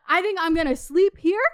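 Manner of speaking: mocking echo as a disbelieving question; incredulous echo. Echoing date's plan to sleep there, incredulous. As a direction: throw the words back in disbelief.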